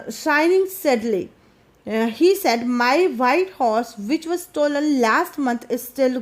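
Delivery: slow, careful reading aloud of the English text; slow story reading. A narrator's reading. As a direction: read each phrase slowly for the class. (धीमी कहानी पढ़ाई)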